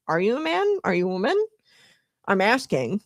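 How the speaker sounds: rising, genuinely asking tune on man and woman; questioning inflection. Retold or imitated. Mimicking the agent asking the protester sincerely, rising questioning tone. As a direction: imitate a curious, honest question. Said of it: "a tone of, like, inflection ... where he was, like, asking".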